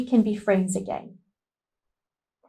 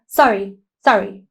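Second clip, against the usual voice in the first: quick throwaway sorry, sorry; dismissive sorry; 3 semitones lower, 4 dB louder than usual. Shown as a demonstration. Teacher showing children an insincere, careless apology. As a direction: brush it off without meaning it. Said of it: "So you can't just say".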